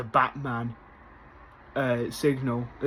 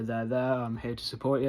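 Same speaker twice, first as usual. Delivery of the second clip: softer, gentle reassurance; soft comforting; 2 semitones lower, 5 dB quieter than usual. Retold or imitated. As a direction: soothe him quietly, there there. Vic comforting Oz.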